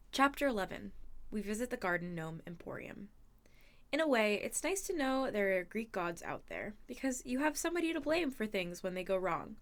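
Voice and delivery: audiobook-style read-aloud; story narration. A narrator's reading. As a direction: read the chapter aloud to listeners. Reads the novel aloud.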